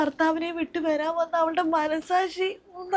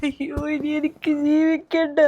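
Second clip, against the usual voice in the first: wailed out, full voice; despairing wail. Acted. Mother declaring she can't go on, wailing. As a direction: cry it out to the heavens.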